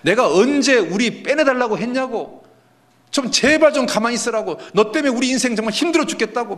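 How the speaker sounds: high, heated blaming; acted crowd grievance, exasperated; resentful protest. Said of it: "원망하는 겁니다".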